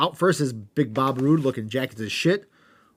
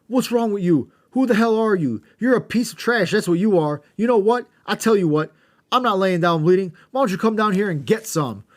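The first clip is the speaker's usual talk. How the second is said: higher, louder shouting trash talk; hammed-up wrestling promo; 8 semitones higher, 6 dB louder than usual. Host acting out wrestler's mic rant, loud mock shouting. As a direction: yell it into the mic at your rival. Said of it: "A J gets on the mic and says".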